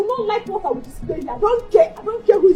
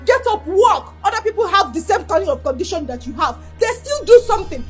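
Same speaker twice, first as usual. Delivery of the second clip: scolding. Acted. Wife berating her injured husband to earn money, scolding. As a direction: berate him to get up and work.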